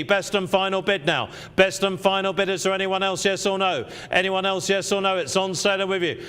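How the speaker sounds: quick auction calling, chanting bids; auctioneer. Acted. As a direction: keep the bids rolling.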